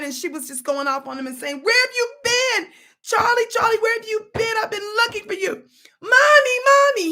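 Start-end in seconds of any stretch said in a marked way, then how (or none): 1.6-5.7 high, loud crying scold; tearful mother yelling at her lost boy. Retold or imitated. Mother scolds her found son, high crying shout. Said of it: "she was screaming and crying". 6.0-7.1 put-on high, loud child's call; little boy voice. Little boy calls to his mother, high child voice. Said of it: "he says to her".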